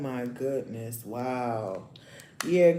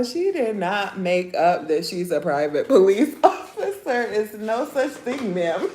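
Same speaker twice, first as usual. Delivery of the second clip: laughing; 4 semitones higher, 5 dB louder than usual. Real, not acted. Disbelief at the fake officer.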